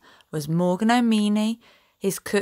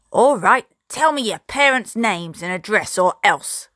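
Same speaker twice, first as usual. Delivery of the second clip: a louder, menacing captain's growl; growling threat; 4 dB louder than usual. Acted. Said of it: "Captain Firebeard growled".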